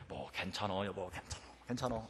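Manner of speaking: very soft, low forced reassurance; holding temper back. Retold or imitated. Husband reassuring his late wife, suppressing his temper, hushed. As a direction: murmur it low, keeping anger in. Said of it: "혈기를 안 부리려고요".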